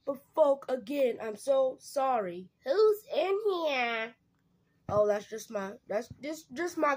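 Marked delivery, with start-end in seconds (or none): 2.6-4.1 suspicious call. Acted. Partner suspicious of a visitor.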